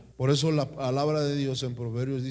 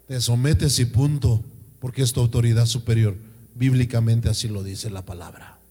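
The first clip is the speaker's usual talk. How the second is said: louder, firm preacher's command; firm insistence; 4 semitones lower, 7 dB louder than usual. Real, not acted. Pastor tells the wives firmly, louder, to just submit. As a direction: lay it down flat, no arguing. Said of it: "pastor insists on submission".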